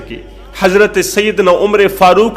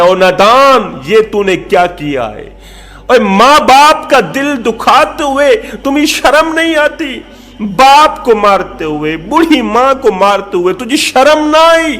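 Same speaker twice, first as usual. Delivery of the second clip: raised, indignant scolding of an ungrateful son; stern rebuke; 3 semitones higher than usual. Acted. Caliph scolds the son who beat his parents, angrily. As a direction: rebuke him with righteous wrath. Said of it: "جلال میں آ کر فرمایا".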